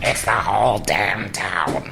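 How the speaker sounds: odd, strange, angry-sounding delivery. Retelling a favorite movie line: Jeffrey Jones line, weird and mad. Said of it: "Like from Howard the Duck".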